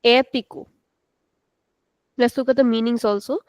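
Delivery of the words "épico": "Épico" with an open, lengthened first e; extended vowel. Shown as a demonstration. Teacher demonstrating the longer accented vowel, open e. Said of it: "saying it for a longer time".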